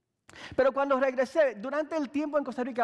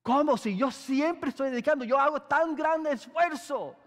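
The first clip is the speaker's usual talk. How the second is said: defensive; 4 semitones higher than usual. Retold or imitated. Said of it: "comencé a defenderme y decir".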